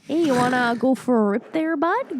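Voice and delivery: hammed-up Canadian "there, bud"; mocking how Canadians sound; exaggerated Canadian accent. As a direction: play the hoser stereotype. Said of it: "All I could hear was".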